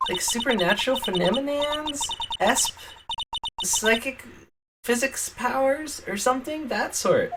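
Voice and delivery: put-on high, airy Valley Girl. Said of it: "Valley Girl voice".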